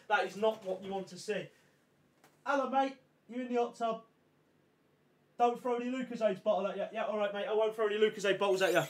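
soft, distant chat away from the mic; off-mic aside. Real, not acted. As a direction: talk quietly to someone outside the window. Talking away from mic at window.

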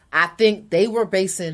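chewing gum while talking; mouth full. Real, not acted. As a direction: talk around a piece of gum. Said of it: "You giving an interview with gum in your mouth?".

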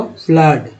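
फ्लड with open 'uh', like 'flud'; double o as 'uh'. Shown as a demonstration. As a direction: open the vowel of फ्लड, no 'oo'. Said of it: "double ओ का उच्चारण आ के रूप में".

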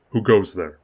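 loud call with a waver; uncertain challenge. Acted. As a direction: challenge the dark, unsure. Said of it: "called out suddenly".

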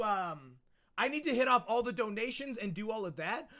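usual speaking voice

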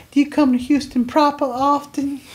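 high, put-on coy voice; mock flirty pickup line. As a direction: tease it like a corny pickup line. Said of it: "and she's like".

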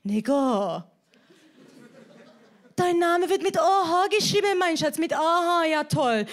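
put-on Iranian-accented dad voice; German with a Persian accent; Iranian father. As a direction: imitate an Iranian father explaining patiently. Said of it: "mein iranischer Papa nur so".

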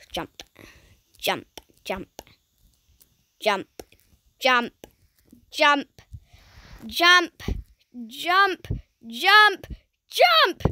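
building shout. Real, not acted.

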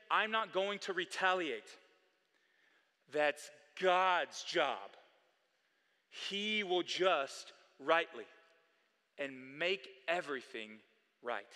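a hint of Joseph, slowing and softening; lightly voiced Joseph, letting it go gently; Joseph's quiet resolve. Voicing Joseph's inner resolve.

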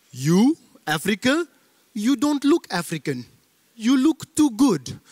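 taxi driver. Retold or imitated. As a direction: imitate an incredulous cabbie, last words slow and high. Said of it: "like a taxi driver once asked me".

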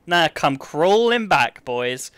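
slow, drawn-out gloat over come crawling back. Acted. Streamer gloating at chat who doubted, slow mocking taunt. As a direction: savour every word of the taunt.

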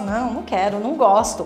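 low, soft grimacing no; disgusted refusal. Shown as a demonstration. Teacher refusing liver she dislikes, low and disgusted. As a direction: turn the food away in distaste. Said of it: "sinal de não gostar".

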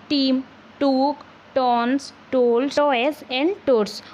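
"Tim took tons, tolls, toys and toads" word by word, pausing between words; alliteration demo. Shown as a demonstration. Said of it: "All these words sounds as, uh, the same consonant".

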